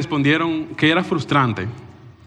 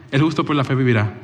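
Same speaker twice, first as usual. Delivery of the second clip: lovingly; 3 semitones lower than usual. Acted. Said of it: "el Señor amorosamente respondería".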